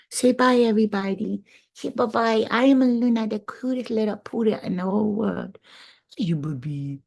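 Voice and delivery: high playful pet voice; voicing the dog. Speaking as her poodle Luna saying goodbye, high and cute.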